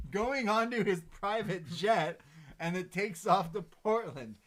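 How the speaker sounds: loud, high, slow play-by-play; hyped announcement. Acted. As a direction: proclaim each beat at full excitement. Building up the jet reveal.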